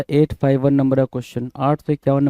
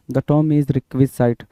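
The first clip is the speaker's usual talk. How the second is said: slow announcement; much slower than usual. Shown as a demonstration. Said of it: "teacher announcing the term slowly".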